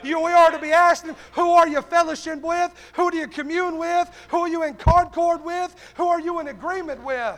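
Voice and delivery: forceful, driving sermon delivery; fervent preaching. Real, not acted. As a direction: press the congregation with punched questions. Preaches to congregation.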